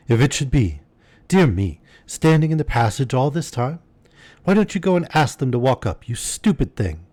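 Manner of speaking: high-pitched, fussy rebuke; exasperated, pitch climbing high; flustered scolding. Acted. Flustered mistress scolding her servant girl.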